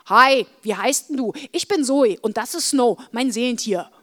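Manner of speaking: loud, lively introduction; eager greeting. Acted. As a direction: greet a new girl with a forceful, friendly hello. Girl eagerly introduces herself.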